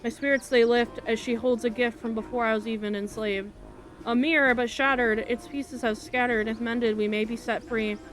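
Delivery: lilting rhymed verse, lightly performed; measured poem reading, phrase by phrase; bard's verse recital. Acted. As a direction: recite it like a minstrel's ballad.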